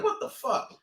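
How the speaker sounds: breathy stunned whisper; whispered disbelief. Retold or imitated. Recalling watching the fight, whispered disbelief. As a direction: hush it out in disbelief. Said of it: "I was like".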